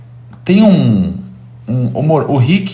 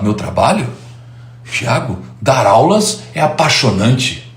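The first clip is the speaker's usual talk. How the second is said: lightly voiced, deliberate enthusiasm; mild impression of an impassioned teacher; Clóvis de Barros. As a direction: savour it slowly, a touch of passion. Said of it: "Ele fala com muito entusiasmo".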